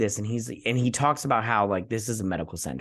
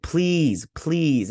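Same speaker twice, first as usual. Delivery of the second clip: imitated plea, pitched up; begging; 6 semitones higher, 4 dB louder than usual. Infected friend begging her to kill her, imitated pleading. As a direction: plead it in a lightly acted, higher voice. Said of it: "She's begging you".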